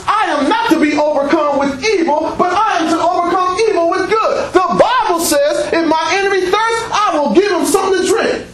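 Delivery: high, firm preaching to the devil; scripture flung at the devil in a high voice; rising scripture declaration. Real, not acted.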